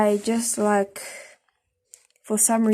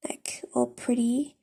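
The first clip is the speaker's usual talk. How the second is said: whisper; 2 semitones higher, 6 dB quieter than usual. Real, not acted. Whispering aside while shading eye.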